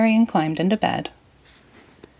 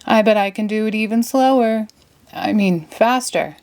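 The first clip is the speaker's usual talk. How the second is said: Patrick boast; 4 semitones higher than usual. Acted. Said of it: "shouted Patrick".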